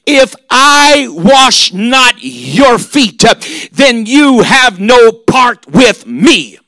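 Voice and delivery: slow, shouted words of Jesus; emphatic. Acted. Preacher booming Jesus' warning to Peter. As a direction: lean hard on every word. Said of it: "That's pretty emphatic".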